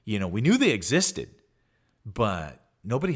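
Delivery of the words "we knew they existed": usual speaking voice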